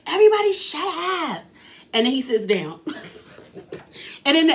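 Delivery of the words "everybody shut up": mocking Andy. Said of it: "decides to stand up and say".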